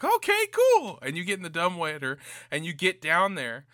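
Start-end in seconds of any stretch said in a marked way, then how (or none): 0.0-1.0 high, breezy mock agreement; goofy easy-going okay; mock casual. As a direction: play it dumbly relaxed. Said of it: "And you're like".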